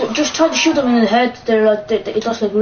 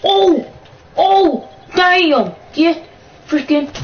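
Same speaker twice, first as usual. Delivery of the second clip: loud startled yells, higher; startled shouts; 6 semitones higher, 6 dB louder, much slower than usual. Real, not acted. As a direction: shout in shock at a sudden attack. Sudden zombie attack.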